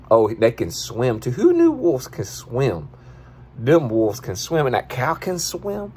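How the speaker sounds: a hint of a goofy guy reacting to a viral video; Dollar character voice. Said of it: "that's your boy Dollar".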